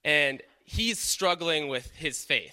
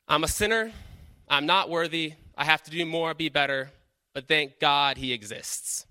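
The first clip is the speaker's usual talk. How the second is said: voicing cheap grace. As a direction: act out the hollow excuse. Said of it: "Cheap grace says".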